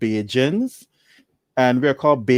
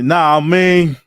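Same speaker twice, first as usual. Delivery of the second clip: louder, drawn-out Philly "Nah, I mean"; Philly accent imitation; 3 semitones higher, 6 dB louder than usual. Mimicking a Philadelphia accent for a friend, drawn out. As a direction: drawl it like a Philly local. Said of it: "accent where they sound proper".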